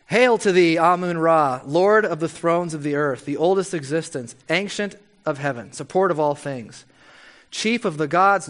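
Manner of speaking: grand, declaiming recitation of titles; intoning a list of divine titles; solemn prayer reading. Acted. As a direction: read it like an ancient hymn to a god. Reads ancient Egyptian prayer aloud.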